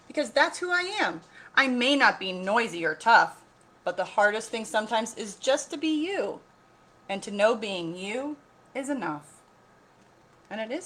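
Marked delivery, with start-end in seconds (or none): 0.1-9.4 higher, earnest little voice; little elephant. A narrator's reading. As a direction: speak your truth gently but firmly. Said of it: "Num Num said".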